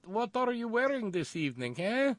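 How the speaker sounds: put-on high, suggestive European accent; mock sultry European voice. Host pretending the first lady turns phone-sex operator, sultry European accent. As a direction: purr the question like a phone-sex line. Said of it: "she sounds like the German chick".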